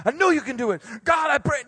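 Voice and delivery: fervent prayer. Pretend. Jesus imagined praying loudly for Peter as he steps out. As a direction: pray out loud over him, fired up. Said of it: "He doesn't even be like".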